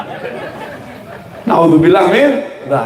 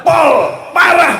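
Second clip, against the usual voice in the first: exaggerated "Parah"; 10 semitones higher, slower than usual. Shown as a demonstration. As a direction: belt out "Parah" high for everyone to repeat. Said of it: "Coba diulangi gimana?".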